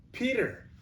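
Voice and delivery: very high, loud calls; crying out. Acted. Edmund calling to Peter after seeing Aslan, high and loud. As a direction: call out to your brother up the path. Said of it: "cried Edmund".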